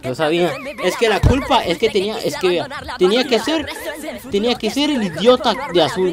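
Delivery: high, loud complaint through laughter; laughing rant. Real, not acted. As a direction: laugh while blaming the guy in blue. Blaming a teammate, laughing. (quejándose entre risas)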